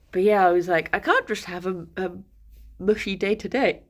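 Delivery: talking through hiccups; hiccuping between words. Real, not acted. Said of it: "sorry, I've got the hiccups".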